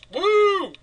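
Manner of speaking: high whooping cheer; excited woo. Pretend. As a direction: give a big excited woo. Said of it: "Can I have a woo".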